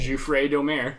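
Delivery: Jouffre Domer as zhoo-FRAY doh-MAIR; mock-French Jouffre Domer, open endings; mispronounced name. Shown as a demonstration. Player joking about his character's namesake, said in mock-French.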